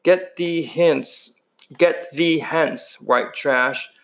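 slow, lofty mock-snob voice; snobbish voice. Two-Bit playing a rich kid, slow and snobbish. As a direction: look down your nose, slow and grand. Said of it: "in a snobbish voice".

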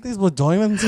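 mock South African accent; jokey movie-style South African accent; Leo. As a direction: echo the Blood Diamond accent. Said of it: "Can you do the Leo blood diamond accent?".

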